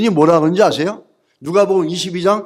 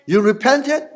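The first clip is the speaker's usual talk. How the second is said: gently voicing Jesus, slow and a little higher; 4 semitones higher, much slower than usual. Preacher voicing Jesus to Peter, slow and tender. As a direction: let Jesus speak slowly, pleading.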